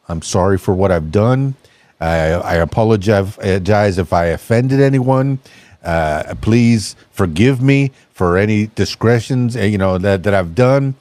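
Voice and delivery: a parrot apologising meekly, voice dropped low; contrite parrot. Acted. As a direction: joke teller doing the chastened parrot in a low voice.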